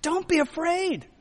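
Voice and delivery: high, impassioned proclamation; Jesus. Acted. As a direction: call out fervently over the storm. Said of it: "hear the voice of Jesus saying".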